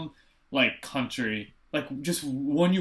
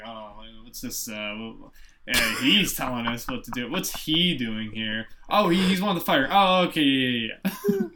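a muttering, puzzled Captain America, mock; lightly voiced baffled Cap; confused old-timer Cap; 3 semitones lower than usual. Captain America muttering to himself, puzzled, mock.

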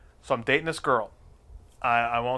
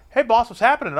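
voice of his dick; 9 semitones higher, 5 dB louder than usual. Retold or imitated. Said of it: "My dick goes".

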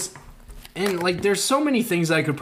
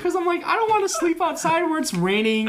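laughing through words; 13 semitones higher than usual. Real, not acted. Laughing while telling storm story.

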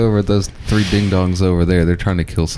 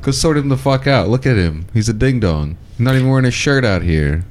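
hype man encouragement; 4 semitones higher than usual. Retold or imitated. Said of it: "Just like".

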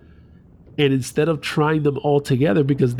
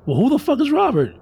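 incredulous who; 11 semitones higher than usual. Retold or imitated. Kid confronted with new name.

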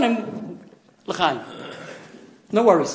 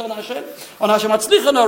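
fervent congregational plea; 2 semitones higher than usual. Retold or imitated. Teacher imitating worshippers at Hallel, with fervour. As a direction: echo an eager crowd, pushing the last word. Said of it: "With his slavos".

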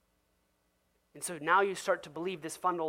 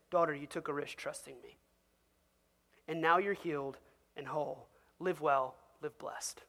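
gentle Jesus; 4 semitones lower, 4 dB quieter than usual. Acted. Jesus speaks gently to woman.

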